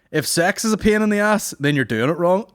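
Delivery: high, loud put-on voice; hammed-up joke read. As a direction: deliver it like a cheesy comedian. Reading joke in voice.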